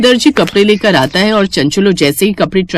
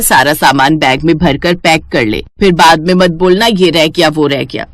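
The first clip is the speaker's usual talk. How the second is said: a hint of an older mother, a bit lower; lightly lower, motherly instructing; lightly voiced mother; 4 semitones lower than usual. Mother telling daughter to pack, lightly lower and motherly.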